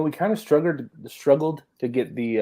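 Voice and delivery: talking around a cough drop; words round a lozenge; mouth full. Real, not acted. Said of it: "I got a cough drop in my mouth".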